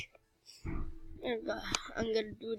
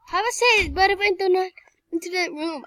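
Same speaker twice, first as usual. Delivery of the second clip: villain voice; 6 semitones higher, 5 dB louder, faster than usual. Pretend. Villain warning.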